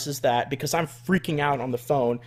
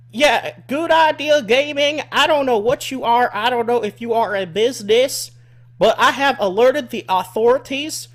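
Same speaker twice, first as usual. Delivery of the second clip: mock redneck woman; 8 semitones higher, 6 dB louder than usual. Caller threatening the streamer with police, high redneck voice. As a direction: threaten like an outraged hick lady. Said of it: "redneck woman who sounds incredibly overweight from, like, Arkansas".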